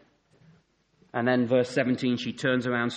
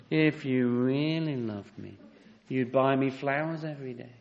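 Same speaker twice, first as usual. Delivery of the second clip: mock sob story; 2 semitones higher than usual. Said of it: "the sob story".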